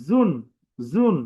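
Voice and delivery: জুন with the lips not rounded; unrounded lips. Shown as a demonstration. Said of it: "ঠোঁট না গোল করে উচ্চারণ করে". (ঠোঁট গোল না করে জুন)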